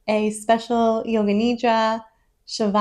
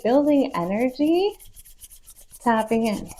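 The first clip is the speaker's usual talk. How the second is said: steady coaching push with stretched key words; encouraging urging. Real, not acted. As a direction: urge them on as the energy builds. Urging vigorous hand rubbing.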